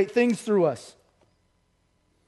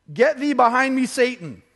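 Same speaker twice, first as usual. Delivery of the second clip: raised, forceful retold rebuke; stern rebuke; 3 semitones higher, 3 dB louder than usual. Jesus turning on Peter, stern rebuke. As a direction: send him off firmly, voice lifted.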